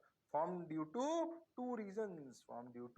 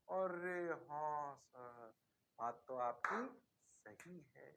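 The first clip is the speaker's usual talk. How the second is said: slow, lower, drawn-out student agreement; student conceding to the teacher, drawn-out and lower; mock student; 3 semitones lower, 3 dB quieter, much slower than usual. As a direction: drawl out the dawning student realization.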